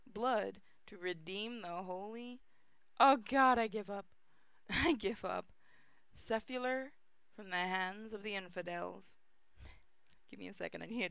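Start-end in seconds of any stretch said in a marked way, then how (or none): 3.0-5.5 laughing surrender; giving up with a laugh. Real, not acted. Giving up on hard word.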